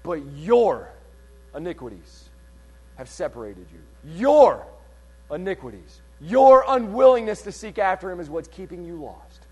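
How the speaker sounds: weighty pause after a stressed "your". Real, not acted. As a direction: lean hard on each "your", pausing after it. Pointed accusation to the listeners.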